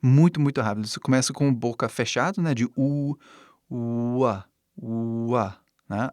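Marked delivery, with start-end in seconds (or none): 3.7-5.6 UA starting on a held closed U, opening into A; gradual opening. Shown as a demonstration. Teacher breaks down W, UA slowly opening from U. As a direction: stretch the U of UA, then open. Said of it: "Abrindo assim".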